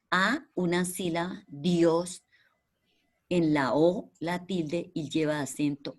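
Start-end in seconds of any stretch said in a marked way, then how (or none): 1.5-2.2 whispered hint. Real, not acted. Teacher whispers word for child.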